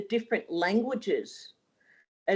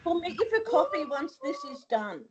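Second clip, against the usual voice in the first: talking with a mouthguard in; wearing a mouthguard; 11 semitones higher, 3 dB louder than usual. Real, not acted. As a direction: speak around a mouth guard. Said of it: "I have my mouth guard in today".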